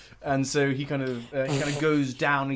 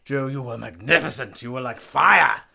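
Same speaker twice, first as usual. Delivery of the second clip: grand ballet master; 3 dB louder than usual. Acted. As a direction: bless your star pupil. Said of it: "He's like".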